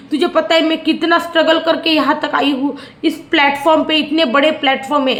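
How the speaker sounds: lightly voiced show-off girl; a hint of a self-pitying influencer; Tania imitation. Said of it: "Tania के dialogue".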